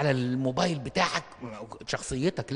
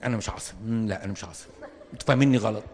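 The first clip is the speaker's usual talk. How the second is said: mock denial; 5 semitones lower, faster than usual. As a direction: mutter it like a man sure he is calm. Denying temper, lower voice.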